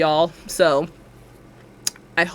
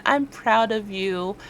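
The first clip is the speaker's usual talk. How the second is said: slow affirmation; 4 dB quieter, slower than usual. Shown as a demonstration. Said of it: "tell yourself once again".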